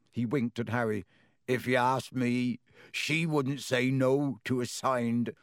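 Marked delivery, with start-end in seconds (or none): 1.5-5.3 lightly voiced gamekeeper Hagrid, teasing; a hint of a rough, jovial giant; gruff half-giant. A narrator's reading.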